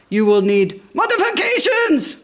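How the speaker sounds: lightly voiced formal car; tow car voice. A narrator's reading. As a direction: state it seriously.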